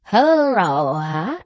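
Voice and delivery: sudden drawn-out yell; startling, long-drawn holler. A narrator's reading. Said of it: "suddenly yelling out".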